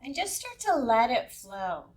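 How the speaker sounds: unhurried meditation guide, long pauses between instructions; lightly held yoga nidra guiding voice; guided meditation. Acted. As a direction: ease listeners into relaxation, leaving space between phrases.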